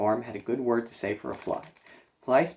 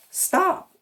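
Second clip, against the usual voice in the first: high, loud desperate shriek; piercing scream; 7 dB louder than usual. A narrator's reading. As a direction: shriek it to cut the sheep off. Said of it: "screamed Wilbur".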